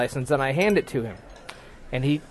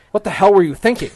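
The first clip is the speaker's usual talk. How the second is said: mildly raised, indignant scolding; imitating pissed cop; 4 semitones higher than usual. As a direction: scold like an angry traffic cop. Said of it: "he's like, he's pissed".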